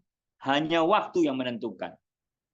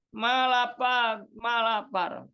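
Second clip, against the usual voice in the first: put-on a higher, slow, pleading child's call; hungry child calling; 6 semitones higher, slower than usual. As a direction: cry "Ma, lapar" like a starving kid.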